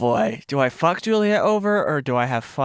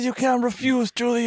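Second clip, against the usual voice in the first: put-on Italian accent; 6 semitones higher than usual. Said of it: "I'm gonna do my Italian accent".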